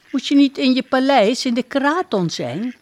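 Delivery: puzzled little duck. Acted. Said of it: "vraagt Boeng Bebek".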